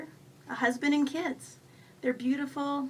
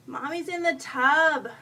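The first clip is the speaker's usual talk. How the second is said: mother's raised, drawn-out call; 4 semitones higher, 7 dB louder, slower than usual. A narrator's reading. Mother in the bath shouts to her three-year-old, calling out. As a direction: call slowly, louder and higher, to a small child. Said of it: "I cu-, shout to my three-year-old".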